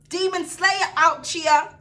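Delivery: slow drawn-out triumphant hype; slow proud Demon Slayer hype; slow boast. Acted. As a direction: stretch it out like a victory chant.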